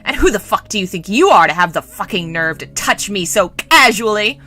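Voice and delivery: acted furious demand; spitting shout. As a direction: spit out the outrage, hitting key words. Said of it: "spitting as he shouted".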